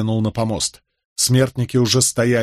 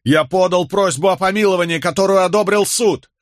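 high, insistent protest; desperate outcry; 8 semitones higher, 3 dB louder than usual. A narrator's reading. Condemned man arguing with soldiers dragging him off, desperate outcry. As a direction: plead your case at a high pitch. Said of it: "возопил Болейн".

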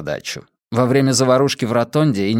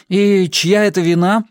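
higher, pointed question; pointed interjection; 8 semitones higher, 4 dB louder than usual. A narrator's reading. Wylan needles Jesper without looking up, pointed. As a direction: cut in with a pitched-up jab. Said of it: "вставил Уайлен".

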